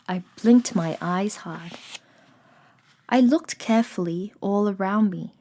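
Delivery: measured storybook reading with pauses; composed audiobook-style narrator; story narration. A narrator's reading. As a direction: read it aloud evenly, phrase by phrase. Reads the story aloud.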